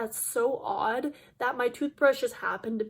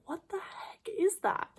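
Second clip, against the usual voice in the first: higher, slow, drawn-out alarm; alarmed question; 7 semitones higher, 5 dB quieter than usual. Retold or imitated. Seeing something crawling on her toothbrush, slow high alarm. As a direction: recoil as you realize what it is. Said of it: "I'm like".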